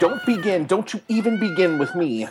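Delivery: very high, clunky, badly dubbed line reading. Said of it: "the English dubbing is absolutely atrocious".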